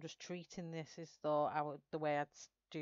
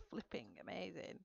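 breathless whisper of delight; awed whisper; 10 dB quieter than usual. Real, not acted. Painter admires her own result, hushed whisper. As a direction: whisper it, amazed at what you see.

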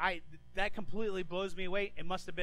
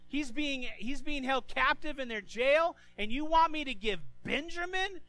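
high, loud anguished pleading; distraught father; 7 semitones higher, 3 dB louder than usual. Retold or imitated. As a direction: cry out in protest, near despair. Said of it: "He goes".

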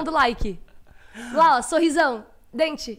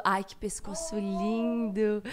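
adoring; 5 semitones lower, 4 dB quieter, much slower than usual. Real, not acted. Adoring baby's neck.

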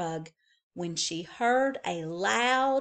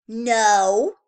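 put-on childish denial; 10 dB louder than usual. A narrator's reading. Girl lying to mother.

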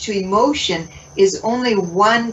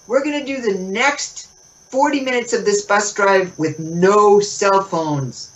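mock bus announcement; 4 semitones higher than usual. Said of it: "stand in the front of the bus and say".

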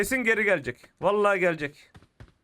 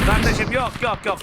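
loud refusal; 5 dB louder than usual. Real, not acted. Angry refusal in game.

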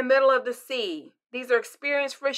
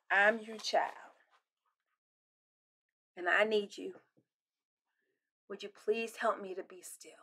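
whispered prayer; 2 semitones lower, 9 dB quieter than usual. Retold or imitated. Child asking God for stillness, whispered. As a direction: pray it tenderly under your breath.

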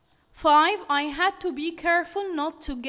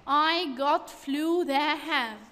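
slightly slow, halting read of jumbled words; scrambled words read out. Shown as a demonstration. Teacher reads the scrambled sentence to the class, a little slow. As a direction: read the jumbled order deliberately, word by word. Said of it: "I have got the flu".

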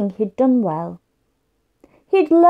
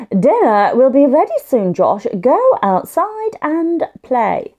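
firm mum voice; 4 dB louder than usual. Acted. Mum tells Josh to wait.

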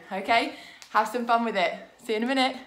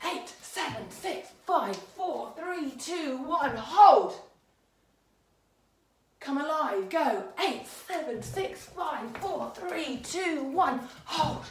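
counting the beat; 5 semitones higher, slower than usual. Shown as a demonstration. Teacher counting in her class for a dance. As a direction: clear dance count, rising call. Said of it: "So I'm gonna go".

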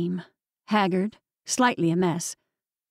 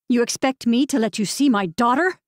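harsh, tight, louder challenge; 4 semitones higher, 3 dB louder than usual. Acted. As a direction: bite off each word coldly. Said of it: "tight and harsh".

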